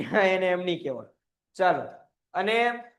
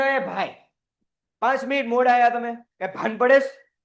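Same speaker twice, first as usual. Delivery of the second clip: mock scolding. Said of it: "એમ કહેવાય?".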